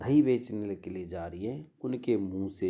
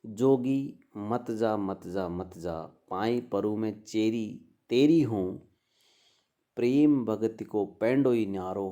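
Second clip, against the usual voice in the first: verse recitation. Acted. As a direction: recite the pada like a devotional chant. Recites Mira's pada as a verse. (भजन का धीमा पाठ)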